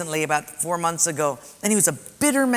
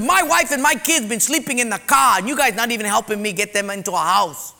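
higher, heated retold accusation; angry accusation; 3 semitones higher than usual. Man yelling at pastor.

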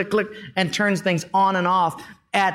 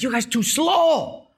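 mock boastful shout; 8 semitones higher, slower than usual. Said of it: "Portuguese guy says".

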